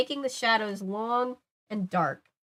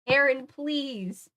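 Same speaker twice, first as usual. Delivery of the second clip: pleading; 4 semitones higher, much slower than usual. Acted. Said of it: "I pleaded".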